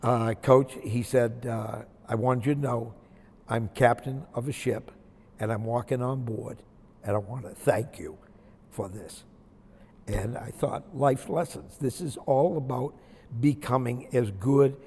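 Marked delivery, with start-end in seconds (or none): 0.0-9.2 getting emotional. Real, not acted. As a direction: hold back emotion while quoting a grateful call. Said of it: "I'm gonna get emotional again".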